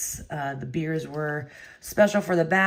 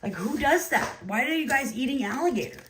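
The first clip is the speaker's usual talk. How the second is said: exasperated refusal; 6 semitones higher than usual. Retold or imitated. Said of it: "I'm like".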